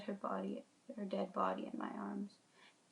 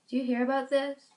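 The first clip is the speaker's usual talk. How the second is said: excited sister; 6 semitones higher, 10 dB louder than usual. Acted. Sister excitedly sharing news.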